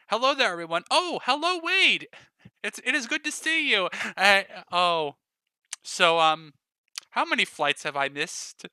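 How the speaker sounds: breezy, bright welcome to the group; Stacy greeting. Acted.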